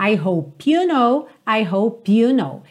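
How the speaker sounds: slowly, "hope you" run together as "ho-pyu"; linked P. Shown as a demonstration. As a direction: carry the p of "hope" onto "you". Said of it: "vai ligar o P na próxima palavra".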